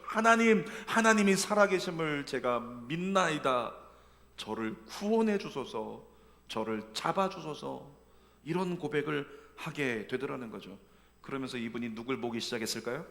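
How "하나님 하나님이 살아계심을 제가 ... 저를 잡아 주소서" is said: earnest prayer. Retold or imitated. Suffering believer pleading with God, slow earnest prayer. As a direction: pray it slowly from the heart.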